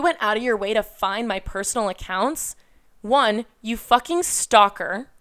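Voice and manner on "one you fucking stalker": pissed off. Real, not acted. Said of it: "Man, I sound so fucking pissed".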